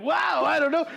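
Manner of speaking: high, loud mock kid voice; movie kid. Kids answering the professor, high mock bewilderment. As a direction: exclaim like an imitated movie kid. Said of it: "And the kid's like".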